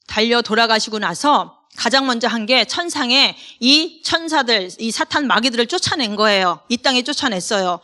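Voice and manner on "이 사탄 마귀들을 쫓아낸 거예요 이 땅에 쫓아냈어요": ordinary talk, nothing marked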